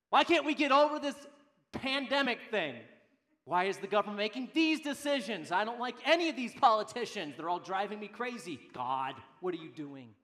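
loud, exasperated acted rant; angry grumbling. Preacher acting a citizen griping about government, exasperated grumbling. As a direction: complain loudly, fed up with everything. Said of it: "your Donald Duck grumbling moment".

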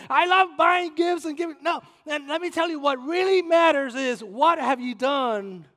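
loud, high, rousing pulpit preaching; preaching at full force. Acted. Pastor rousing the church about the last trumpet, full-force preaching. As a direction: lift the congregation with fiery preaching.

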